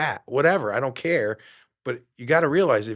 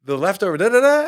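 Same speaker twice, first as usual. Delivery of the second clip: imitating the nagging brain; 8 semitones higher, 4 dB louder than usual. Brain's voice nagging about food.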